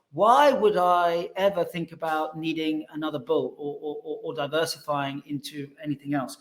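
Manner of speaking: put-on a light, admittedly poor South African accent for the old advisor; a hint of a South African accent, half-laughing at the start. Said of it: "maybe I'll do a South African accent, but it won't sound anything like it".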